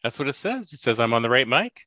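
thin voice no bass; thin tinny sound, no bass. Real, not acted. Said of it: "you sound tinny".

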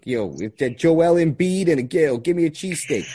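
put-on Philadelphia sports fan accent; brash Philly guy ranting about the team. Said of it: "That's the Philly accent".

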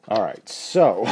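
cracking voice, real slip. Real, not acted. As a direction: voice breaks mid-phrase. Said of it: "sorry, my voice just cracked there".

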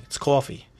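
"coffee" said "caw-fee"; New York pronunciation. Shown as a demonstration. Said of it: "That's how we say coffee".

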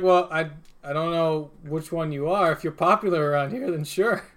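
put-on casual New York accent, bartender talk; lightly voiced New York bartender; New Yorker bartender. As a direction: play a local New York barman. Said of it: "this guy's turned into a New Yorker".

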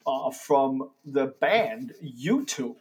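slow, halting delivery with odd pauses; Christopher Walken. Pretend. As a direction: stretch it out, breaking the phrase in strange places. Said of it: "wanted to talk like Christopher Walken".

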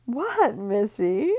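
high, loud nosy asking; Libby pressing Missy to explain; eager question. Acted. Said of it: "Libby asked".

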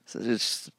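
hushed unvoiced whisper. Real, not acted. Whispered aside at start.

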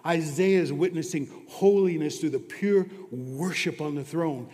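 ordinary talk

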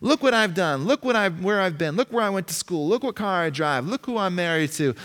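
self-important boaster listing achievements; boastful. Pretend. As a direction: demand everyone look at you. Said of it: "Self-importance".

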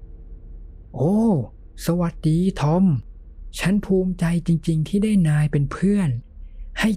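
high, bubbly cheerful voice. A narrator's reading. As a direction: gush with over-the-top cheer. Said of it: "จอห์นพูดอย่างร่าเริง".

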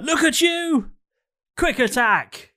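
high cocky monster cry; creature voice. Acted. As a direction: crow it like a cocky bird. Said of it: "and he goes".

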